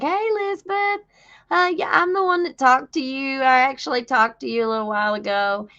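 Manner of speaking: high, bright friendly greeting, sped up; mock the cheerful state cop's hello; imitating the nice cop. Imitating the cop greeting Elizabeth on her porch, friendly and high. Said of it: "He was super nice".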